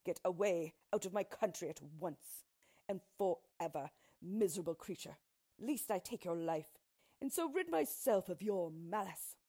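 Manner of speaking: understated royal threat; threatening king. Acted. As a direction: order the intruder out as a king with drawn sword. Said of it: "threatening her with his sword".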